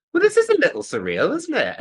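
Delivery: high, arch mock-British aside; wry understatement. At the Olympic premiere, arch wry aside to himself. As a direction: play it as dry understatement.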